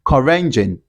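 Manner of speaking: 'car engine' run together as 'ca-rengine'; linking R. Shown as a demonstration. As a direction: link 'car' to 'engine' with an R. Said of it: "pronounce it and link it".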